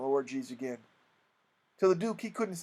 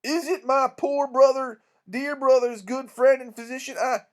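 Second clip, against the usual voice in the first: higher, gushing welcome; eager greeting; 6 semitones higher, 4 dB louder than usual. Acted. King offering his hand to the doctor, eager. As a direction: greet him with effusive eagerness. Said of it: "he smiled eager".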